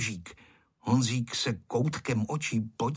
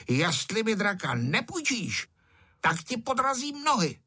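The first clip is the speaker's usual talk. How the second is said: rising into a high mock-angry threat; a hint of a furious boy's shout; angry yell; 9 semitones higher than usual. A narrator's reading. Bully threatening to trip the boy, mock-angry high yell. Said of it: "Ferda se začal zlobit a křičel".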